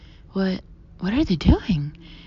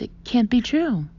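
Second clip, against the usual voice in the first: stilted; 4 semitones higher, 5 dB louder than usual. A narrator's reading. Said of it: "in a stilted voice".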